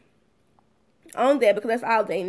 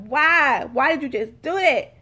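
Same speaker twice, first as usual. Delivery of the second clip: mildly raised, exasperated mock yell; mock road-rage yell; 3 semitones higher, 4 dB louder than usual. Retelling screaming at drivers from the car, mock yell. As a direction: imitate yelling at a driver, held back. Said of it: "screaming in my car".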